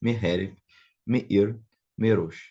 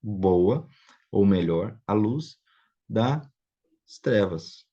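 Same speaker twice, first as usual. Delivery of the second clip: literal reading; much slower than usual. Shown as a demonstration. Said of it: "Literalmente é".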